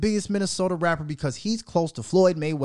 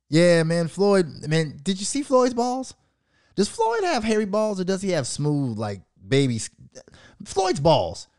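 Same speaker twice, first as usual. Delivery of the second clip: 1 mock interviewer; 4 semitones higher than usual. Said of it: "they don't say none of that".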